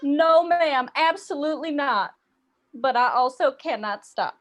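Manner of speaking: put-on copied Southern accent. Customer denying she's making fun of cashier, Southern accent. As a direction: stay helplessly in the borrowed Southern accent. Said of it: "we just start doing it back to them involuntarily".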